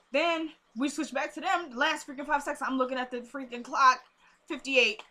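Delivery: high-pitched, excited retelling; worked-up recap. Real, not acted. Vlogger recounts the show's last five seconds, worked up.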